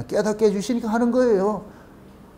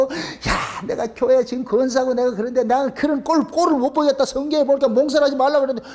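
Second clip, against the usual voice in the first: judgmental parent; 4 semitones higher than usual. Retold or imitated. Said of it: "그걸 가지고 범죄시해가지고".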